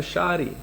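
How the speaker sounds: sari said as shari, with sh. Shown as a demonstration. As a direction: turn the s of sari into sh. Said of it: "sh that, so it becomes".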